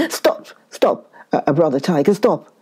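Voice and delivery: breathy, frantic stop; scared plea to the pouncing tiger; panicked plea. Acted. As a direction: beg him to stop as he lunges. Tiger springs, Brahmin begs.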